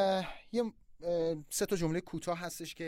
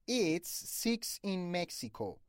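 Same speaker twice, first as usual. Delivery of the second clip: put-on Persian accent; 5 semitones higher, much slower than usual. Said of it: "فرض کنید یه نفر بگه".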